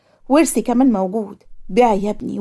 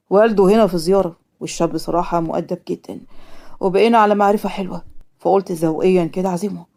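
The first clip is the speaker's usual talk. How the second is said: lightly voiced father, pitched down; a hint of a calm father's lower voice; father character; 4 semitones lower than usual. Father explains a dinner invitation to his daughter, lightly voiced and low.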